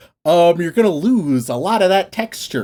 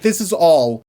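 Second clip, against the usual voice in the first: very serious, pretentious; 5 semitones lower than usual. Retold or imitated. People misreading Shakespeare as all serious, pompously solemn. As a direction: intone it with pompous gravity. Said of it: "people who don't understand Shakespeare read Shakespeare".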